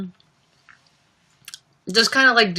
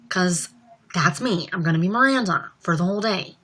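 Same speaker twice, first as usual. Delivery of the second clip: whisper; 4 dB quieter than usual. Acted. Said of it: "I will talk like this".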